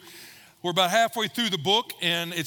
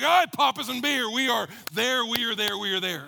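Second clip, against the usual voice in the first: fired-up wife; 3 semitones higher than usual. Retold or imitated. Wife excited to go on a date after the sermon, cheering. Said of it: "she's pretty fired up".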